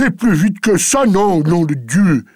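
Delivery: high, loud impatient growl; growled order. Acted. Master growls at his maid to hurry, angry. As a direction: hurry her along with a grumbling bark.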